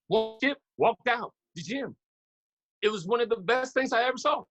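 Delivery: leaving a glowing voicemail; voicemail caller. Retold or imitated. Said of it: "the voicemail said".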